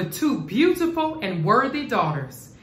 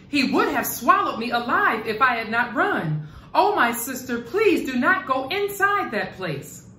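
frightened pleading; 4 semitones higher than usual. Acted. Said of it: "she cried hysterically".

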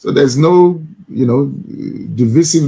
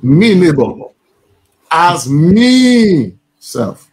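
Scouse accent; much slower than usual. Shown as a demonstration. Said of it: "let's repeat that your again".

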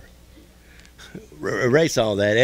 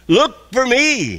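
much higher, very slow and drawn out; God's inner voice; 9 semitones higher, 5 dB louder, slower than usual. Pretend. God calling the listener, high and slow. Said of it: "still voice inside of you say".

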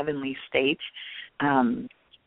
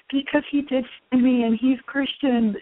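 high, emotional retelling of a crying answer; retold tearful reply; 10 semitones higher than usual. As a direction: relive the tearful answer, pitch lifted. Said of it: "all of a sudden I start crying".

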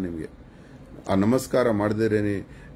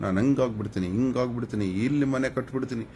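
lightly imitated boaster, pitch climbing; mock boasting; 4 semitones higher than usual. Streamer imitating borrowers' dreams of houses, mock boastful. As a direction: parody big plans in a rising voice.

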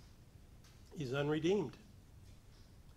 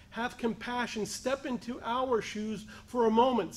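raised, urgent plea; higher-pitched appeal for compassion; calling out to the Lord; 4 semitones higher than usual. Acted. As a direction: plead earnestly with voice lifted. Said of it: "That was their call out to the Lord".

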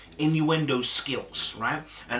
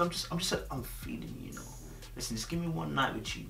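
suggestive flirting tone; 11 dB quieter than usual. Shown as a demonstration. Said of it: "you already know what I'm alluding to".

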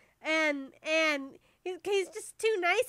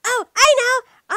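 loud, high, drawn-out exclamation; sudden idea; 6 semitones higher, 12 dB louder, slower than usual. Acted. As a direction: burst out with a bright idea.

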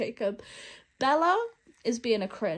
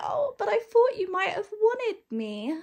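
mocking Jacob; 10 semitones higher, 4 dB louder than usual. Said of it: "And then he's like".

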